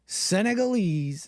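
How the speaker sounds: Senegalese said slowly as sen-eh-gah-LEEZ; slow tentative Senegalese, stress on the last syllable; careful pronunciation. Shown as a demonstration. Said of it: "is that how you say it?".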